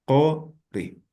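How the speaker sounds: "cori" in two separate syllables, O then I. Shown as a demonstration. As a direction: say "cori" with O in place of U. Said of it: "se va a pronunciar como si fuera la vocal O".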